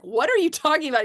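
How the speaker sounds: high, fast, incredulous question; excited disbelief. Retold or imitated. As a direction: blurt it out, stunned and thrilled. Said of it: "he's flipping out".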